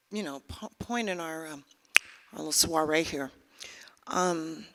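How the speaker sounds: hushed whisper to the crowd; host whispering to the audience; whispered aside. Real, not acted. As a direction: lean in and whisper it.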